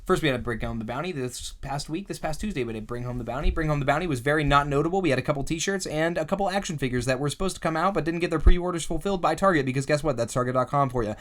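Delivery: fast, loud auctioneer patter. Pretend. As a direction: rattle it off like an auctioneer. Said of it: "I'm gonna talk my auctioneer voice".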